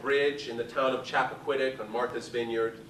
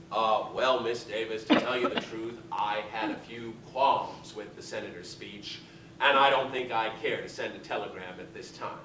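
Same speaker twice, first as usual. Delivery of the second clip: polite mother; 6 semitones lower, 4 dB quieter than usual. Retold or imitated. Mother politely declining to Davis.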